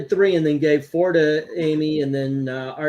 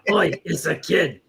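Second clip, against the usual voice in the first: put-on Australian accent. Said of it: "that's how he said it".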